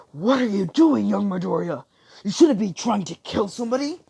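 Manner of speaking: high, loud hero's reprimand; acted urgent telling-off; alarmed scolding. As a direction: shout in appalled disbelief. All Might scolds Midoriya.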